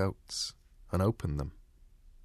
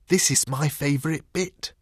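higher-pitched little dog voice, lightly confiding; excited stage whisper, still voiced; 5 semitones higher, 3 dB louder than usual. A narrator's reading. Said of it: "whispered the little dog".

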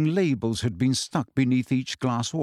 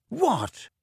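snarled; 10 semitones higher than usual. A narrator's reading. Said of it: "he snarled".

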